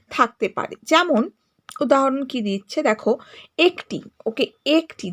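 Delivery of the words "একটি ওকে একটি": "একটি" opening on a pure e sound; clear "e" vowel. Shown as a demonstration. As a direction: say "একটি" carefully, first vowel a close e. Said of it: "এ বর্ণটির উচ্চারণ এ ধ্বনিটির মতো". ("একটি"-র এ স্পষ্ট এ ধ্বনিতে)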